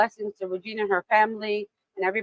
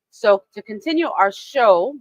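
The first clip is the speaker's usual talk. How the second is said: usual speaking voice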